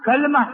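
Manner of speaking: كلمة as kalma; sukun form kalma. Shown as a demonstration. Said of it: "ثلاث لغات". (كلمة بتسكين اللام: كَلْمة)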